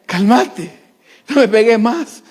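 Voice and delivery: hammed-up scared pleading; mock cowering "Cálmate, no me pegues más"; mock trembling plea. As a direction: beg a wife not to hit you. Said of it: "ahí temblando ante ella".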